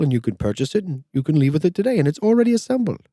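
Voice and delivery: high, formal, overly polite clerk voice; impression of the store associate. A customer retelling his visit imitates the store associate in a high, polite voice. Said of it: "I'll do my best impression of the, the associate".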